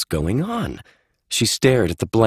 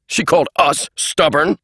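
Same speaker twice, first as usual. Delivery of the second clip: much higher, outraged; indignant shout; 8 semitones higher than usual. Acted. Eisenhower Holt shouting his outrage, much higher. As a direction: yell it, offended. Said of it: "Eisenhower Holt shouted".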